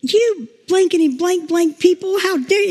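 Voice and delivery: mock cussing out. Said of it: "she's cussing them out".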